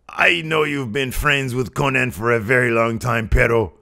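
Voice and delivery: a lightly voiced Alberto scolding; mock-scold his brother, a touch pointed; hint of a scolding older brother; berating brother. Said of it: "he just starts ripping into his brother".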